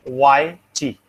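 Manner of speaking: "Y, chi" with the T of white turned into CH; palatalized T. Shown as a demonstration. Teacher demonstrating palatalization, "chi" said with CH for T. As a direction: split it as "Y, chi", a CH sound before EE. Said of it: "the T becomes ch".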